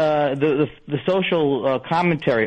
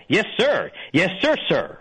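army guy voice; 3 semitones higher than usual. Pretend. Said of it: "that's my new, uh, Army guy".

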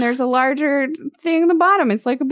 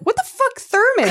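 high, squealed disbelief pitched way up; incredulous; 13 semitones higher than usual. Retold or imitated. Listener mocking the book's glass thermos, high incredulous squeal. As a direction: squeal at how absurd it is.

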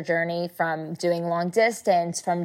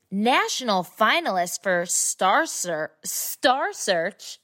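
announcer introduction. Acted. Host presents guest to Girls Night Gang, grand announcer intro. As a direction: build up each credit like a show announcer.

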